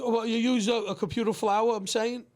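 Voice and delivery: thick Brooklyn accent on "computer flower". Real, not acted. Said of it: "My Brooklyn accent".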